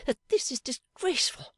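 high, stressing that, disgusted; indignant. A narrator's reading. Fanny complains to Pa, high and indignant. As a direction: spit out the scandal. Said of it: "flushed indignantly".

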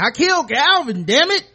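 high, loud hammed-up confession; mock-dramatic shout; mock outburst. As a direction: blurt it out like an overblown movie confession. Imagined dramatic confession, acted.

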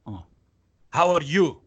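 a jarringly loud cheery greeting; suddenly chummy border guard; sudden friendly officer. Retold or imitated. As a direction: switch from rage to fake friendliness. Officer suddenly friendly after screaming.

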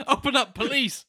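high, loud echo through laughter; laughing mock shout. Co-host mocks a friend's French police impression, laughing shout.

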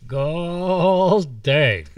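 high, loud squealing woodsman's curse; high-pitched squeal. Acted. Old woodsman woken by the boys, squealing loud. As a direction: squeal it out through barely moving lips. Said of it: "Rancid's normal voice was a high-pitched squeal".

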